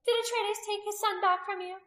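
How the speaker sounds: high, loud demand; accusing, high-pitched challenge; fierce interrogation. A narrator's reading. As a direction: shout questions at a captive. Priestess interrogating a captive.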